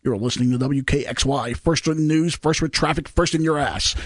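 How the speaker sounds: deep, smooth radio announcer voice; cheesy radio voice. Retold or imitated. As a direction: play it up like a DJ. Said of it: "is that your cheesy radio voice".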